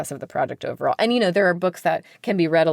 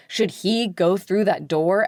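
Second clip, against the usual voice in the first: read-aloud question; slower than usual. Shown as a demonstration. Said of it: "a page turn that relies on you saying".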